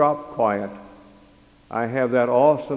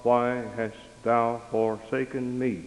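mild anguished cry; 5 dB quieter, slower than usual. Acted. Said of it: "cried out".

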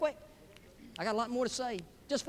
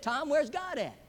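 a little higher, mildly insistent; slightly raised voice; 6 semitones higher than usual. Acted. Preacher asking silent Tom a second time, slightly raised voice. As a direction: press the question a bit harder. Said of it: "raises his voice a little bit".

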